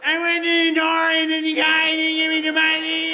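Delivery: high, loud, droning mangled whine; drug-wrecked voice. Acted. Street person complaining about unpaid money, high mangled drugged whine. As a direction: wail it high and garbled, on one note. Drug-changed voice returns in a story.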